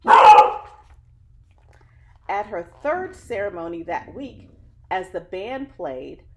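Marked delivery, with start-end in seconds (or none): 0.0-0.6 a loud, high cheer of wow; excited wow. Real, not acted. Teacher reading to kids cheers the third gold medal. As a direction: whoop it out like a fan.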